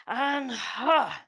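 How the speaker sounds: a light mock kiai on the chop; playful karate ha, not full force; karate chop cry. Instructor calls the karate chop kick, mock kiai. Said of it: "Karate chop time".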